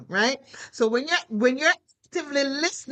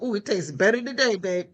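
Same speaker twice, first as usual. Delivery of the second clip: husband's praise; 4 semitones lower than usual. Retold or imitated. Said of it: "He's like".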